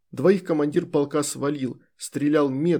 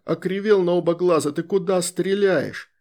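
shouting orders over battle; 4 semitones higher, 3 dB louder than usual. Acted. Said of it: "заорал Красуляк".

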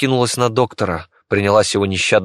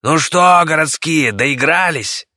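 rasping thug; 7 semitones higher, 3 dB louder, slower than usual. Acted. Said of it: "прохрипел".

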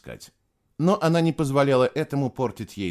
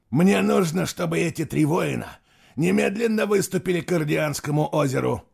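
loud command; 6 semitones higher, 3 dB louder than usual. Acted. Emperor orders.

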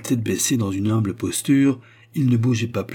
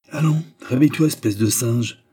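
louder and higher, a rough wake-up jab; gruff tone; 3 semitones higher, 3 dB louder than usual. Acted. Malcolm rousing the dazed peasant, gruff and rough. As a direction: shake him out of his daze, gruffly. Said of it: "d'un ton bourru".

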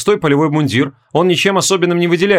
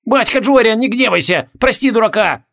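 higher, whiny plea of a big soldier; higher, pleading big dragoon voice; plaintive pleading; 8 semitones higher than usual. A narrator's reading. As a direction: beg forgiveness like a scolded oaf. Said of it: "жалобно прогундосил здоровенный драгун".

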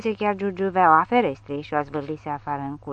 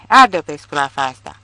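loud, frantic screech; hysterical shriek; 7 dB louder than usual. A narrator's reading. Nelly screams to burn the sow, hysterical. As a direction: scream it in a frenzy. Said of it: "țipă isteric Nelly".

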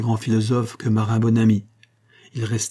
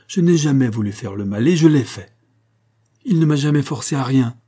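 louder, slightly higher self-accusation; insistent confession; 3 semitones higher, 5 dB louder than usual. Acted. Monique admitting her fault to Marin, insistent confession. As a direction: confess it with rising force.

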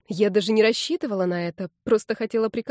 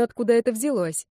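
ordinary delivery, nothing marked

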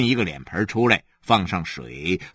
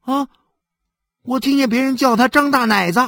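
higher, louder and quick; boyish blurt; 14 semitones higher, 5 dB louder, faster than usual. Acted. Son eagerly blurting a nickname to his mother, higher and faster.

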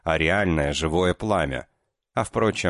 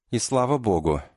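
higher, relieved sigh on the words; 6 semitones higher than usual. Acted. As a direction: breathe it out with relief. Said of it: "вздохнула Маринка".

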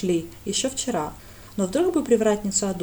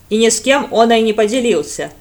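louder snide jab; sly sarcastic aside; 11 dB louder than usual. Acted. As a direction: needle him mockingly. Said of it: "ехидно добавили из-за плеча".

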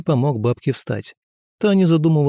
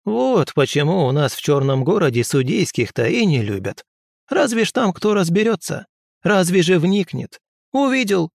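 higher crone voice, reproachful; lecturing old woman; 4 semitones higher than usual. Acted. Old healer lectures the hasty prince. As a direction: chide him like a wise old witch.

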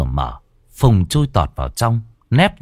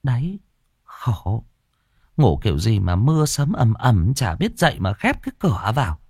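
a soft, weary scolding, softer; mild snapping; 3 semitones higher, 3 dB quieter than usual. Acted. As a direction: grumble at the son, fed up. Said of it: "quay ra nhìn con mà gắt".

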